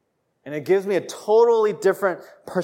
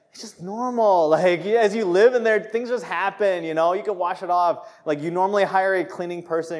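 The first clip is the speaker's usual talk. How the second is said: defensive protest; 4 semitones higher, 4 dB louder than usual. Retold or imitated. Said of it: "I was like".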